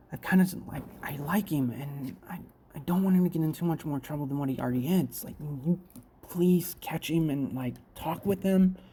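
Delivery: whispered voice. Retelling a story where a character whispers a secret: retelling a whisper. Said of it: "then she whispers".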